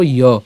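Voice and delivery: "ইয়" as a low, separate ya; pronunciation demo. Shown as a demonstration. Teacher showing the sound of jophola, "ইয়" as ya. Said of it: "কার মতো উচ্চারণ করব".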